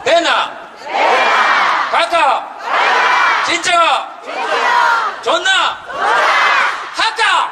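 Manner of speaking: 경상도 사투리로 크게; Gyeongsang dialect. Shown as a demonstration. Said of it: "경상도 사람들이 어떤지".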